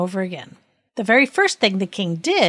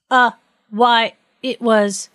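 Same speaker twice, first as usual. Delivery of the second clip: halting, mildly fearful stall, a bit higher; 4 semitones higher, 4 dB louder, slower than usual. A narrator's reading. Judge caught out, faltering before the king's question, fearful. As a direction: start hesitantly, with a touch of fear. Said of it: "in a very fearful voice".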